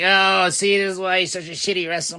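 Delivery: a fan sneering at the wrestler; mocking fan voice. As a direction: scoff like a know-it-all fan. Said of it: "And I see people like".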